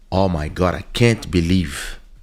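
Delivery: slow, heavy, laid-on put-on Eastern European accent. Retelling what a stripper said on meeting her: imitating a big Eastern European accent. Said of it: "with a big Russian accent or East Europe accent".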